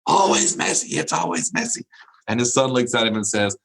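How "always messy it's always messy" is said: frustrated, much higher mock yell; hammed-up exasperated dad. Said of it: "he is frustrated".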